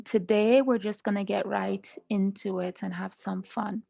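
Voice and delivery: ordinary delivery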